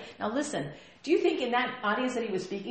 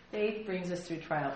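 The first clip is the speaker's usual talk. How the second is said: softer, slow restatement; soft repeat; 3 semitones lower, 6 dB quieter than usual. Shown as a demonstration. Pastor repeating the point, soft and slow. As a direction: say it again gently. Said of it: "I did say that, didn't I?".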